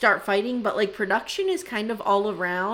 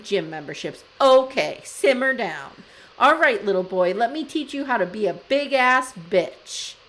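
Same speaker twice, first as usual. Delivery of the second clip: Lindsay. Retold or imitated. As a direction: perform a scornful, theatrical tirade at a husband. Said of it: "Let me do Lindsay, Jodie Foster theater".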